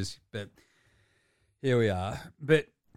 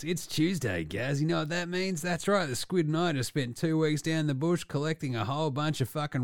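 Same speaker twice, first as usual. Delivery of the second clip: mock ad read. Host selling a wombat roast to his co-host, mock ad read. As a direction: parody restaurant commercial patter.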